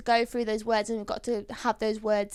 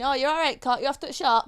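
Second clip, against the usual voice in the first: put-on Yorkshire accent. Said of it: "if we leaned into our Yorkshire accent".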